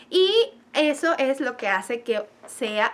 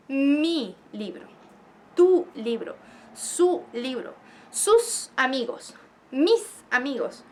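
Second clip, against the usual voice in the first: slow examples; slower than usual. Shown as a demonstration. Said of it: "a decir".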